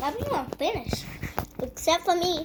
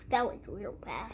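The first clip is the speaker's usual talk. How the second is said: whisper; 5 semitones lower, 7 dB quieter than usual. Real, not acted. Unvoiced aside.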